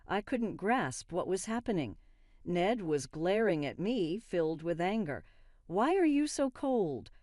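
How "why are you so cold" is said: raised, accusing question; he lashes out at his wife. A narrator's reading. Husband accusing his wife, sharply raised. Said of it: "he accused".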